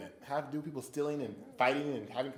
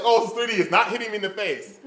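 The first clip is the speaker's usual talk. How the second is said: startled exclamation; 5 semitones higher, 7 dB louder, faster than usual. Retold or imitated. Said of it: "I'm in the seat like".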